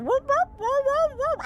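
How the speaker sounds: high, loud, repeated whoops; cat in heat calling. Retold or imitated. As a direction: mimic a yowling cat in heat. Imitating cat's calling noise.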